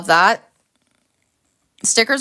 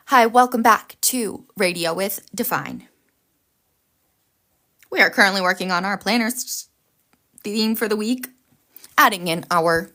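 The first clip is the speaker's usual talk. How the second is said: radio host voice. Pretend. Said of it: "do I sound like a radio host?".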